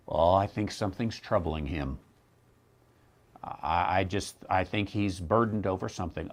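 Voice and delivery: softly imitated worried church member; concerned churchgoer. Churchgoer asking others to pray for the pastor, mock concern. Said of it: "someone will come and, uh, say".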